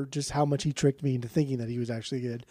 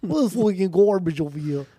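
laughing; 4 semitones higher, 5 dB louder than usual. Real, not acted. Laughing at the awful album.

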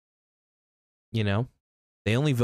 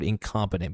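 "incompetent" said with deliberate emphasis; stress on incompetent; 2 semitones lower than usual. Real, not acted. Vlogger criticizing government, emphasizing "incompetent". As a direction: lean on the word "incompetent". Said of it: "I must emphasize the word".

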